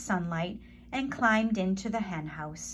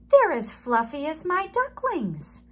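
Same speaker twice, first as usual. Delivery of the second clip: higher, louder duck voice; 7 semitones higher, 5 dB louder than usual. A narrator's reading. Duck Debbie admiring the fluffy chicks, high. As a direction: quack it out admiringly. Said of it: "quacked Debbie".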